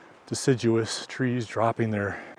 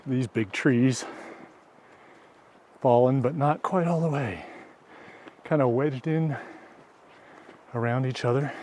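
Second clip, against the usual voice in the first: huff; 3 semitones higher than usual. Real, not acted. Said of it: "Apologize for my huffing and puffing".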